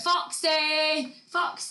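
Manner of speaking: high sing-song call across a field; hollering for a lost dog. Retold or imitated. Owner calling her dog from the bottom of the hill, sing-song. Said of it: "and then she went".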